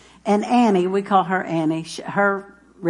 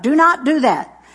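scolding; 4 semitones higher, 4 dB louder than usual. Retold or imitated. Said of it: "she's always like".

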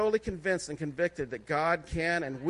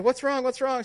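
imitating a panicked wife, pitched high; mock alarm, higher and a touch louder; wife rushing in, alarmed at his call, mildly panicked; 7 semitones higher, 3 dB louder than usual. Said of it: "She came in kind of panicked".

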